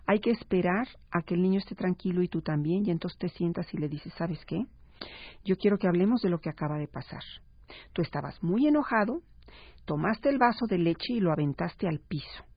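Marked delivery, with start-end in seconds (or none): 4.2-12.4 calm and gentle. Shown as a demonstration. Mother calmly telling her son what he did, gently. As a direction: speak gently, no blame. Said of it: "Entre más suave se lo digas al niño".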